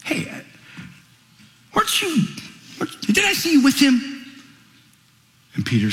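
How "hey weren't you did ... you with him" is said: put-on higher, prodding young girl's voice; girl questioning. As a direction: poke at him like a curious servant girl. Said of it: "a girl says to him".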